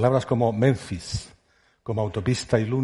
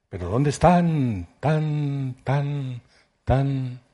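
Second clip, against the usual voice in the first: shouted last call; 4 semitones higher, much slower than usual. A narrator's reading. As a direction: shout it slowly one last time. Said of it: "que gritaste una última vez". (último grito, lento y fuerte)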